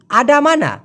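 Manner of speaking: "আডামানা" with clear full a vowels throughout; correct pronunciation. Shown as a demonstration. Teacher showing learners the standard form, correct pronunciation. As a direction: say "আডামানা" cleanly, every vowel an open a. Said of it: "এটা হচ্ছে শুদ্ধ উচ্চারণ".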